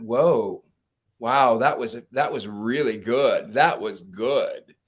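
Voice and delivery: slow, awed wow; amazed. Retold or imitated. Friend reacts to the card reading, slow and amazed. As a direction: let the reading sink in, impressed.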